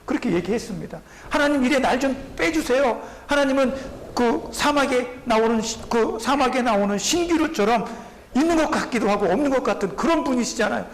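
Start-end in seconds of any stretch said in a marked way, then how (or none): 1.3-10.8 higher, frustrated lament to God; mild imitated grievance; complaining prophet. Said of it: "이렇게 말하는 선지자도 있었습니다".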